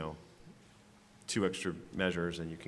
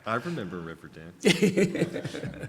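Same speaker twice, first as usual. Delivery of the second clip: laughing; 5 semitones higher, 7 dB louder, much slower than usual. Real, not acted. Laughing at the Riverdance joke.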